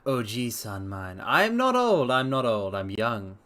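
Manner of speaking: lightly voiced old grandpa, a bit slow; a hint of a creaky old man protesting. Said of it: "Grandpa voice?".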